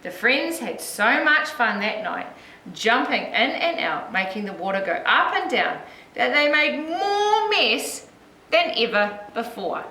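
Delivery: put-on lilting read-aloud for young children; story narration. A narrator's reading. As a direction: tell it like a picture book, with lifted key words.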